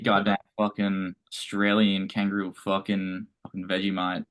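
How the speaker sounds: slow, hammed-up Aussie accent; mock Aussie accent. Friend doing his best Aussie accent for the podcast, slow and hammed-up. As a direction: lay on the Australian accent, slowly. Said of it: "Dylan's gonna do the best Aussie accent".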